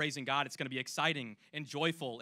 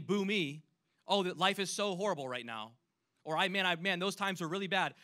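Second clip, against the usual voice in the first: higher, louder whiny moaning; mock self-pity; 4 semitones higher, 5 dB louder than usual. Mocking a self-pitying psalmist, hammed-up whine. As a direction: ham up the poor-me complaint. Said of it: "He's not saying".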